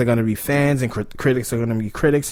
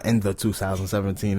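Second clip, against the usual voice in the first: movie trailer voice; 5 semitones lower, 6 dB quieter than usual. Shown as a demonstration. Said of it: "It sounds like a movie trailer".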